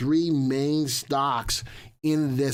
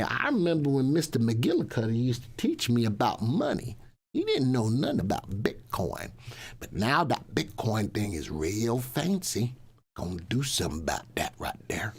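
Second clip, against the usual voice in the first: lightly put-on Southern accent; a hint of a folksy Southern storyteller; 2 semitones lower than usual. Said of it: "I gotta speak in my Southern accent right now".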